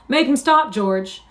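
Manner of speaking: high, loud bleating plea; terrified cry. A narrator's reading. Lenny begging George for help, crying in terror. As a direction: plead for rescue, pitched right up. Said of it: "He cried".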